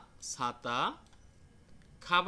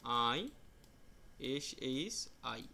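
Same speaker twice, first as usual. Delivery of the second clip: spelling it out; 3 semitones lower, 6 dB quieter, much slower than usual. Shown as a demonstration. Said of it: "তারা এইভাবে লিখবেন".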